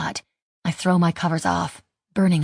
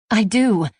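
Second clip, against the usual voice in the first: higher and louder, earnest; eager insistence; 4 semitones higher, 5 dB louder than usual. A narrator's reading. Haley insisting to Mike she wants to, eager and louder. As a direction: press it home so he believes her. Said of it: "I rush to assure him".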